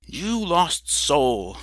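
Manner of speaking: slow, drawn-out angry reproach; understated fury at the drunkard; mock rage. A narrator's reading. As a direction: scold him slowly in a temper. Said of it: "I was in such a rage".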